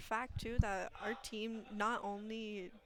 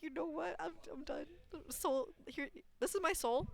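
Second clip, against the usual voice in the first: dramatic surrender; 7 semitones higher than usual. Retold or imitated. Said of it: "I would've just been like".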